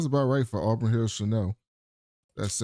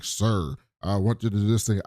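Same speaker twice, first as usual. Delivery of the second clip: Trump's mock staffer voice; 5 semitones lower than usual. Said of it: "When he does that voice".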